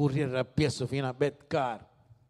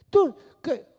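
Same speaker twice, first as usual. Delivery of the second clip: ordinary talk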